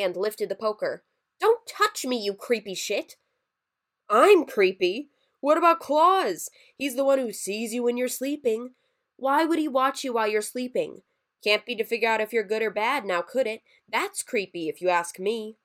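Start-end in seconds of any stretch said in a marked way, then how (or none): 1.4-3.2 angry shout. Acted. Jacob lifts poker at Mergus. 4.1-15.6 louder, higher, indignant rant; offended creature ranting at Jacob; upset outburst. Acted. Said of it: "Sorry I got so upset about it".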